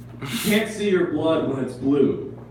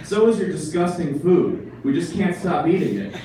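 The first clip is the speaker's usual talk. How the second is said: mocking pigeon; 4 semitones higher than usual. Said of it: "And it's like".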